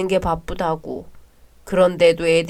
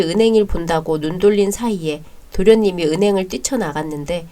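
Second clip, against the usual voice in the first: calm storyteller narration; measured narrator voice; story narration. A narrator's reading. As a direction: recount the backstory evenly, like a story. Bride narrates family backstory.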